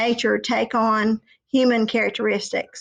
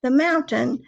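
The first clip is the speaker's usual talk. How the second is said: squeaky brother goat, less tiny; middle goat; 3 semitones higher than usual. Acted. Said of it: "second billy goat Gruff said".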